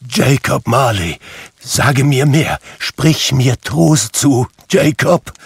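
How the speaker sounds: high, loud desperate begging, slowing on the comfort; pleading. A narrator's reading. Scrooge begs Marley's ghost for comfort, high and pleading. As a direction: beg for a word of comfort. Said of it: "sagte er flehend".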